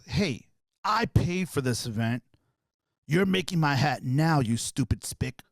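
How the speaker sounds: slow, deliberate angry demand; retold anger, measured and slow; pissed off. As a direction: imitate an angry man, each word drawn out. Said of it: "Now he got pissed off".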